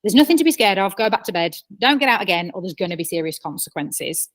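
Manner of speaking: a touch of a sharp, fed-up order; tired parent losing patience, mildly; exhausted parent snapping at a scared child, half-acted; mock snap. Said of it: "and so you snap".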